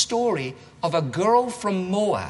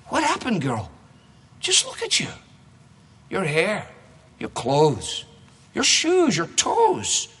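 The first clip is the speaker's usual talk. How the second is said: gossiping townswomen; 3 semitones lower than usual. Acted. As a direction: fuss over her like shocked neighbors. Townswomen greet returning Naomi.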